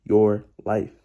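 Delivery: "Your" hit hard, then "life"; emphasis on YOUR. Shown as a demonstration. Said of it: "emphasis on those key words".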